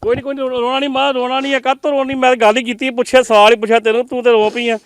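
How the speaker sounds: urgent consoling. Real, not acted. Reporter to a mother who burst into tears, urgently consoling. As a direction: soothe insistently, voice lifted high. Urging crying mother to stop.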